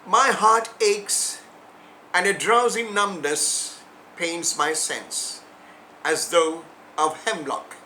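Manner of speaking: measured recital, phrase by phrase; poetry recitation. Acted. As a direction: recite the ode line by line, letting endings fall away. Recites Keats's ode.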